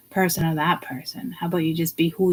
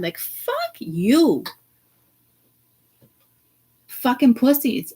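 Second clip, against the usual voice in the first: contempt; 3 semitones higher, slower than usual. Real, not acted. Angry rant.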